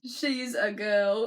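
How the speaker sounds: put-on British reading, slowing on the quote; amateur British accent, drawn out. Harry objecting in the imagine, mock British accent. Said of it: "keep up the British accent".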